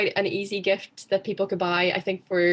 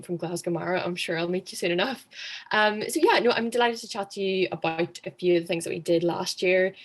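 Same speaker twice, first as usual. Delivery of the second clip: losing voice. Real, not acted. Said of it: "I'm losing my voice, so if there's any weird, like, croaks".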